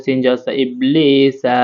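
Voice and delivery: ইবলিসা slowly, লি held one alif; slow spelling-out. Shown as a demonstration. Teacher slowly spelling ইবলিসা for learners. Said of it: "এক আলিফ টেনে পড়তে হবে".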